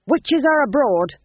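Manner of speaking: high, loud urgent shout. A narrator's reading. Guard shouting at the porter to be let in, loud.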